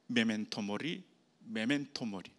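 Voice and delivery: soft whispered repeat, close to the ear; whispering. Retold or imitated. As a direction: murmur it softly like a warning. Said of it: "귀에다가 속삭인다는".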